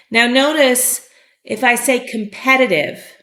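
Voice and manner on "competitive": competitive stressed on the second syllable, kum-PET-uh-tiv; teacher shows competitive with stress on pe. Shown as a demonstration. Teacher to learners, showing the stress on pe. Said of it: "the accent is on this E".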